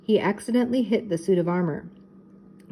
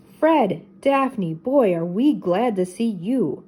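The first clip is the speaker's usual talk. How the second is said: relieved; slower than usual. Acted. Relieved rescue.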